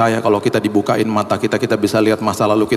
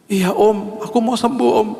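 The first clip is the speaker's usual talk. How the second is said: put-on higher, small child's reply; lightly voiced small child; 12 semitones higher than usual. Sick child answers the pastor, lightly voiced child. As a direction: answer sweetly like a little child. Voicing a four-year-old child.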